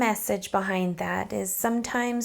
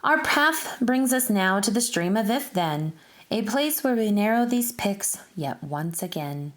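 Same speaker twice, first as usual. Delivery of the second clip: lilting, sing-song rhyming read-aloud; reading a picture book aloud; 2 semitones lower than usual. Acted. Teacher reading a rhyming book to children, sing-song storytelling. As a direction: read the rhymes to a class of children, bouncing along.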